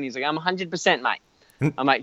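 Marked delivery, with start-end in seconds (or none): 0.2-1.2 imitated easygoing Australian-style accent; lightly mimicked Australian-like accent; Australian-sounding accent. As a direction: do a laid-back mate with an Australian lilt. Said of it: "Dave's Australian?".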